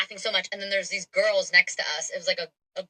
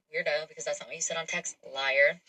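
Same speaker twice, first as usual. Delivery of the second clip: inner thought; 3 semitones lower, 6 dB quieter than usual. Retold or imitated. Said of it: "So in my head".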